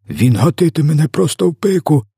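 high, outraged yell; roaring. A narrator's reading. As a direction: bellow the complaint high, like a giant just struck. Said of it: "заревів м'ясопоглинач". (обурений рев)

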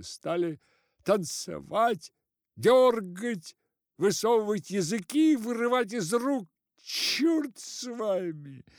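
high, loud breathless telling; agitated complaint. A narrator's reading. Constable complaining to the head, high agitated cry. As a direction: blurt the story in a rush.

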